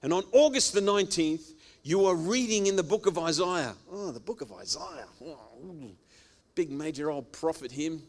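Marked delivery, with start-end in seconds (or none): 3.9-5.9 hushed awe. Pretend. Mock awe at Isaiah.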